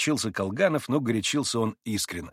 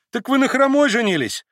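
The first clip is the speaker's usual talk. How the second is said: much higher, louder astonished cry; exclaiming; 13 semitones higher, 7 dB louder than usual. A narrator's reading. Kalganov exclaims in surprise at Maximov. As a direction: blurt it out amazed. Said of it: "воскликнул Колганов".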